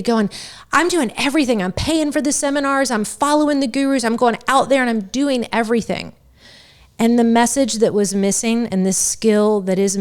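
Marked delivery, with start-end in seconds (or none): 0.7-6.1 higher-pitched, mock exasperated listing; retold frustration. Recalling years of paying for seminars and gurus, acted frustration. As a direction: act out frustrated protesting, pitch up. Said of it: "of being frustrated".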